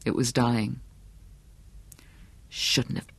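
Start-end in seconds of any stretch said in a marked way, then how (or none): 2.5-3.1 voiceless, very soft whisper; hushed, whispered reproach; menacing whisper. A narrator's reading. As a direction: whisper it over a beaten enemy. Attacker addresses the dying dog.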